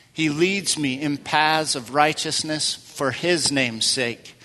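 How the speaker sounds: slow, reverent reading of leads; slow psalm reading. Acted. Pastor reads the psalm line aloud with the congregation, slow and reverent. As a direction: draw the line out slowly, pausing before sake.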